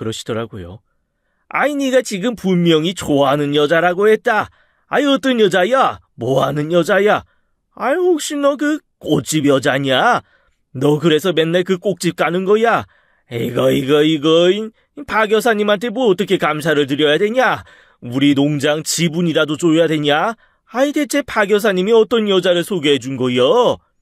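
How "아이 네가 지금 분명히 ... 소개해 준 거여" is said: high, loud, overjoyed, giddy rush. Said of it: "로또라도 된 듯 벙벙 뛰며".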